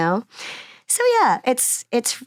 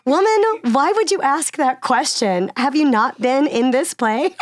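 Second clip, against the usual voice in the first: annoyed retort; 5 semitones higher, 4 dB louder than usual. Retold or imitated. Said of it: "like, annoyed".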